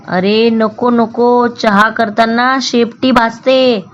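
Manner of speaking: explaining. Acted. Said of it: "ससोबा समजावत म्हणाला".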